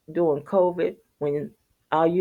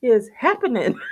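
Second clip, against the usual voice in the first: shocked; 8 semitones higher than usual. Retold or imitated. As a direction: drag it out in horror. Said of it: "I said".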